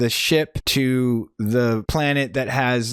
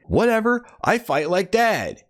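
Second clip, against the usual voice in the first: mock little brother; 8 semitones higher than usual. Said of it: "the little one's like".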